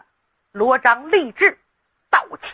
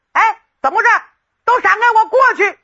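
higher, louder, fast and bossy: clear the road; impatient shout; 10 semitones higher, 4 dB louder, much faster than usual. Acted. Hot-headed young lord orders the crowd aside, fast impatient shout. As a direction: shove the crowd aside with your voice.

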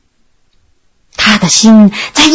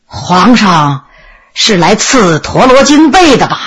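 put-on low, halting old prince voice; sullen prince; 3 semitones lower than usual. Imprisoned prince asks the emperor about a burial quilt, sullen prince. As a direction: draw it out heavily, with a long pause after 皇上.

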